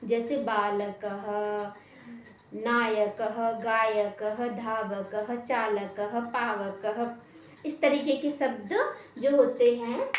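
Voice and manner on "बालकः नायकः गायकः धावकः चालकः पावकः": slow list, each word ending in a clear "ha", as in बालकः; visarga as ha. Shown as a demonstration. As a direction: sound out the ः of नायकः as a short echoed "ha". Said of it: "हा समझ सकते हैं".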